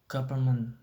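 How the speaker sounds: "government," said without its first n; first N dropped. Shown as a demonstration. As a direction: say "government," as guv-er-ment. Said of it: "dropping out the first N".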